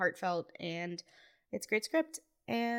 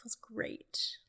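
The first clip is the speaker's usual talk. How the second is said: whisper; 3 semitones higher, 10 dB quieter than usual. Pretend. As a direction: echo "Feels great" in a whisper. Whispered echo of own line.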